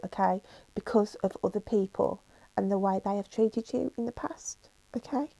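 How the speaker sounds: whispered through tears; tearful whisper. Real, not acted. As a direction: let it come out hushed and emotional. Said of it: "this is your emotions that I'm picking up".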